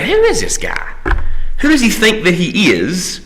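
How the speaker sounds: high, incredulous outburst; indignant disbelief. Retold or imitated. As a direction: ask it like you can't believe anyone would dare. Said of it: "we instantly see him saying".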